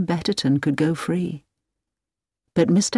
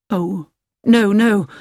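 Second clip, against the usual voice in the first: sudden cry; 3 semitones higher, 5 dB louder, slower than usual. Acted. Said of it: "said Hilary suddenly".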